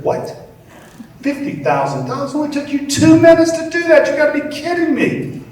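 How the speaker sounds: loud, very high shocked protest; a fan shouting at Picasso's price, loud and high; outraged fan. Acted. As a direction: yell it in disbelief, way up high.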